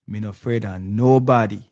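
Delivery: Prime Minister's line in light Jamaican patois; host quoting the Prime Minister in Jamaican patois; imitating Jamaican patois. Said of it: "the Prime Minister said".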